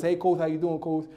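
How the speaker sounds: lightly lisped little-boy imitation; soft "th" for every s and ch, especially in "coach"; toothless kid lisp. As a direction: lisp it like a kid with no front teeth. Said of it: "so he sounded like this".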